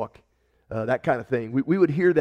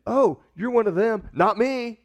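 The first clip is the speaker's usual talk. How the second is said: higher, playful "oh, you're one of them"; mock exchange; 8 semitones higher, 4 dB louder than usual. Preacher acting girl and Peter, lightly hammed-up. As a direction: toss off the accusation and denial lightly.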